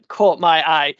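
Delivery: ordinary delivery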